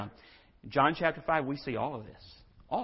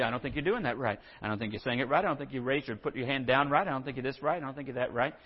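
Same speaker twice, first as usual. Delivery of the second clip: nitpicking; 3 semitones lower, 4 dB quieter, faster than usual. Acted. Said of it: "the way we kind of are with each other".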